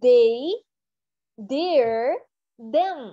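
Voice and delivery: "They", "their", "them" said with a d, as a drill; practice drill. Shown as a demonstration. Teacher leading the class in repeating the words. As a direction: drill each word for students. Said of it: "Now practice with me".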